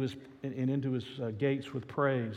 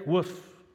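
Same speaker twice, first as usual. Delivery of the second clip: mock dog bark; 4 semitones higher, 4 dB louder than usual. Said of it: "interrupted the dog".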